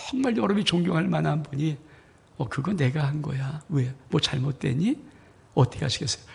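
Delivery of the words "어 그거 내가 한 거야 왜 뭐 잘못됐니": calm elder. Acted. Respected elder answers calmly.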